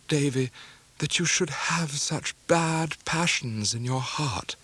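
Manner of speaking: slow, sorrowful and pleading; grieving mother. Acted. Mother parting from her son, slow and sorrowful. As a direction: forgive him through your own grief.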